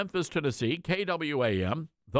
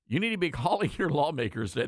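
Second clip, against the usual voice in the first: laughing; faster than usual. Real, not acted. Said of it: "The reason I'm laughing".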